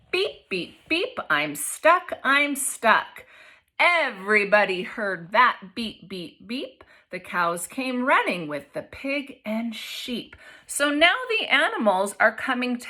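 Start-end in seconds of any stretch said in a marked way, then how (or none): 0.1-3.2 beeping truck. Acted. 3.8-10.3 expressive picture-book read-aloud; reading to children. A narrator's reading.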